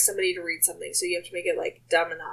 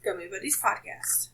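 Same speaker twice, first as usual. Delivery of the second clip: whispering; 6 dB quieter than usual. Real, not acted. Playful whispered plug.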